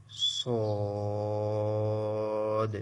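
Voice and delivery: সদ held long, full and heavy; drawn-out sad. Shown as a demonstration. Teacher showing students the heavy letter সদ. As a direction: stretch সদ with a thick s sound. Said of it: "এটাও টেনে উচ্চারণ করতে হবে".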